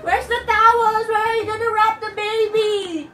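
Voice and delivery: loud, urgent demand for towels; calling out. Pretend. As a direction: hurry the child along in mock panic. Fake labor, calling for towels.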